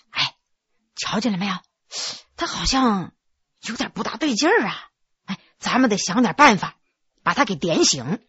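hushed aside. Acted. Le Min pulling the maid aside, hushed and secretive. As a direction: lean in and keep it secret. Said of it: "急忙把玉儿拽到一边儿".

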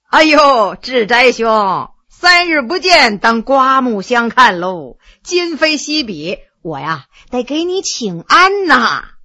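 slow, drawn-out courtly flattery; bow and stretch each polite phrase; Haining's ceremonious greeting. Acted. Haining greets his old classmate Heshen, slow and ceremonious.

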